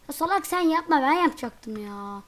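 loud irritated outburst; annoyed yell. Real, not acted. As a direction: shout it at the friend who ruined your move. Yelling at teammate mid-game.

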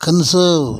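கன்சர்வ் as kun-SUHV; silent R. Shown as a demonstration. Teacher models conserve for learners, silent R in கன்சர்வ். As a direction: drop the middle R in கன்சர்வ். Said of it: "ஆருக்கு உச்சரிப்பு கிடையாது".

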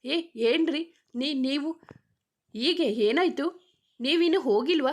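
put-on a young man startled and fumbling for words; flustered. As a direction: stammer out the questions in a fluster. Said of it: "ಚಡಪಡಿಸುತ್ತಲೇ".

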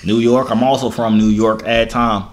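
a light put-on country accent while flirting. Flirting with a stranger on video chat, in a country accent. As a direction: lay on a lazy Southern country accent, smooth talker. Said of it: "country accent sucks".

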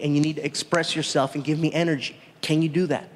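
a hint of a coaching director; film director. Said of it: "The director comes up to me".

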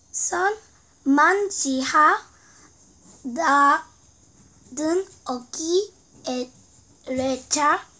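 reading Korean text backwards syllable by syllable; halting, careful backward reading; backwards speech. Shown as a demonstration. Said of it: "거꾸로 읽으니까 중국어".

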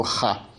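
"Ra" as a soft throaty kha; fricative variant. Shown as a demonstration. Teacher explaining other spellings, fricative pronunciation of "Ra". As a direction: say "Ra" with friction at the back of the throat. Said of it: "quando é pronunciado".

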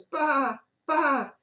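lightly voiced goat baa; goat bleat. Goat noise heard by librarian.

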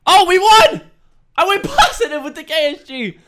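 high, loud, laughing joy; loud high laughing celebration; elated win. Real, not acted. Team wins match.

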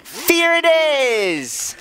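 voix traînante et enjouée. Pretend. Playful announcing of character choice.

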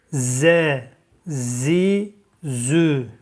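Z, Zi, Zü said sharp and crisp; sharp letter drill. Shown as a demonstration. Teacher calling out sharp letter sounds to students. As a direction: hit each Z sharp and clean.

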